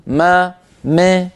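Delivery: ما stretched slowly, vowel leaning; drawn-out wrong fatha. Shown as a demonstration. Teacher exposing the faulty fatha by stretching it slowly. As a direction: drag out ما with a bent a. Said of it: "ما هذه ليست فتحة".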